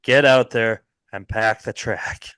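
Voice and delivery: a hint of a stadium announcer; impression of Mason. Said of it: "my impersonation of Mason".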